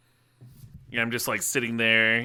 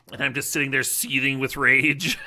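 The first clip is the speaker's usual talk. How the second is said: laughing; 3 semitones higher, 4 dB louder than usual. Real, not acted. Laughing while telling the story.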